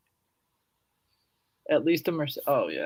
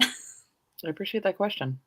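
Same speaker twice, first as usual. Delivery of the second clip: yawning; 3 semitones higher, 7 dB quieter, slower than usual. Real, not acted. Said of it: "I'm yawning".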